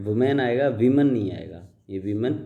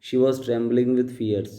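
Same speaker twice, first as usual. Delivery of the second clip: slow, deliberate read-aloud of the paragraph; slow dictation reading; much slower than usual. Shown as a demonstration. Teacher reading the paragraph aloud to students, slow and deliberate. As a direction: read each word out slowly for the class. Reads slowly.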